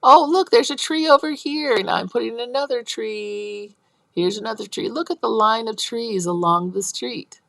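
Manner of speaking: put-on high, excited little kid spotting trees; a child's lightly voiced excitement. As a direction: imitate a child playing with blocks. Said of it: "you heard him say".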